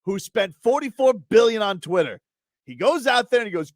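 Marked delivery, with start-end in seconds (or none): 0.0-2.2 comic outrage, stretching out words; slow, exasperated tirade; exasperated rant. Real, not acted. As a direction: rant indignantly, drawing out the key words. Exasperated rant about Musk.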